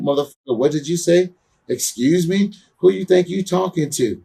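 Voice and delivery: retold angry comeback. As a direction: fire it back like you're squaring up. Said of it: "I was like".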